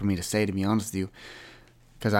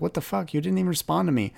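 high-pitched, fast what-the-hell; outraged disbelief; 9 semitones higher than usual. Retold or imitated. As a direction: squeak out the retold outrage. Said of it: "I was like".

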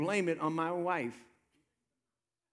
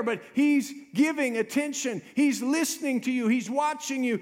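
raised, insistent pulpit delivery; impassioned preaching; 4 semitones higher, 3 dB louder than usual. Real, not acted. Preacher assuring the congregation the Lord is attentive, impassioned preaching. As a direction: press each point home, voice lifted.

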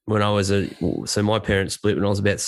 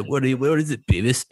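cartoon teen voice; 4 semitones higher than usual. Shown as a demonstration. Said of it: "I can do a few".

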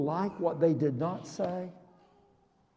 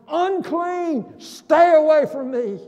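higher warning call; 6 semitones higher, 6 dB louder than usual. Pretend. Leper warning everyone away, calling out. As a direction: call out to keep people away. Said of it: "declaring yourself to everyone".

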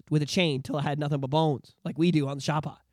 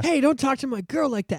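Hayden Christensen impression; 7 semitones higher than usual. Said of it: "I was just imitating Hayden Christensen".

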